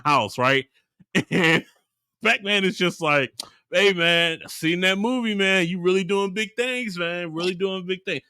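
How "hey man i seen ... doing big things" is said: mildly upbeat, encouraging Pac-Man quote. Retold or imitated. Pac-Man being nice to everybody, mildly upbeat. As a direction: lightly imitate a good-spirited hype man. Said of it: "he's just so upbeat".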